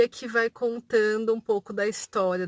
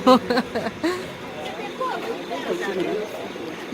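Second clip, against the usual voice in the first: evil cackle; 4 semitones higher than usual. Retold or imitated. Essa foi a risada maligna do Davidson.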